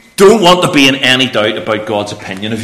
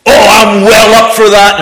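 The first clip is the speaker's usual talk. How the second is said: put-on little boy voice; 10 semitones higher, 7 dB louder than usual. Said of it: "they were correcting him".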